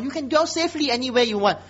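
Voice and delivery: mock-generous permission, lightly lifted; sarcastic. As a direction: wave them on with sarcastic largesse. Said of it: "very sarcastic".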